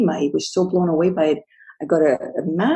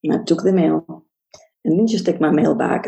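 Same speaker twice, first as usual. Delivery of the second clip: normal talking voice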